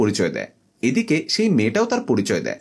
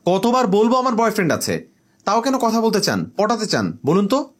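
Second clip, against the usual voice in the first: fed-up, pitched higher and sharper; exasperated; 6 semitones higher than usual. Acted. Girl fed up with the stranger who keeps talking, exasperated retort. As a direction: snap back, sick of repeating herself.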